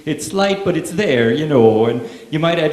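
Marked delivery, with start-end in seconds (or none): 0.1-1.3 a slight Irish lilt; faint picked-up Irish accent. Shown as a demonstration. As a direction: slip lightly into an Irish lilt. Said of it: "you start talking like this".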